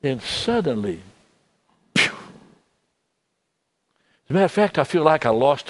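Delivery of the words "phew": short blown-out phew; sigh of relief. Retold or imitated. Man relieved of his burden, blowing out a phew. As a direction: let the breath rush out. Sudden relief after the prayer.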